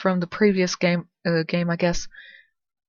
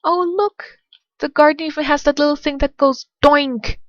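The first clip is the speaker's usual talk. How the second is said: excited; 8 semitones higher, 5 dB louder than usual. Acted. Delighted discovery in garden.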